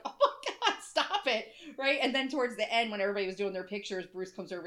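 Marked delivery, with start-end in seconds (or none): 0.0-1.5 quoting Beth. Retold or imitated. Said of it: "Beth is like".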